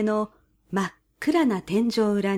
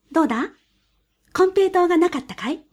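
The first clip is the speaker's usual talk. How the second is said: high, sly weasel voice; 7 semitones higher than usual. A narrator's reading.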